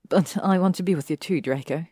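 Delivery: happily. Acted. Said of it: "she finished happily".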